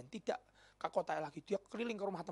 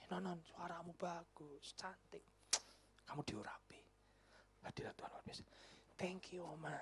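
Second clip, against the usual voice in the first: softly voiced old lady; 15 dB quieter than usual. Old woman praising the singer.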